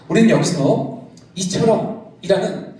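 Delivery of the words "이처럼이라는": "이처럼" drawn out slowly, ending on a rise; slow stressed key word. Shown as a demonstration. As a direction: lean on "이처럼" slowly, rising at the end. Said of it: "저 단어를 주목할 필요가".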